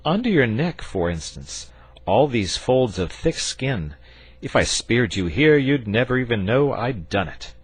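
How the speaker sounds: a hint of a genial knight; knight's voice. A narrator's reading. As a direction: knight reassuring the dragon, lightly voiced. George's voice in story.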